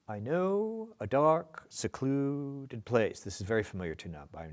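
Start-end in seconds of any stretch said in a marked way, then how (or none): 0.1-3.2 drawn-out lyric reading. Shown as a demonstration. First full reading of lyric.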